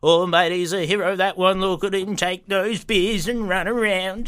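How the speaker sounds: hammed-up hero worship; admiring local. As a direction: hail the local hero, stretching the last words. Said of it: "He's like".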